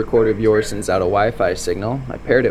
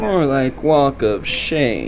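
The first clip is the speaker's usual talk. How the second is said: slow pun; much slower than usual. Acted. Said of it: "Someone already made that terrible joke".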